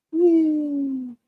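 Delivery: high gleeful whoop; excited whoop. Real, not acted. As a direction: cheer as you glide. Whooping while gliding in game.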